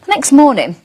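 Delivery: lively storybook read for little ones; reading to children. Acted. Presenter reading a bedtime story to young viewers, lively. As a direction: tell it like a bedtime tale to a small child. Reads picture book to children.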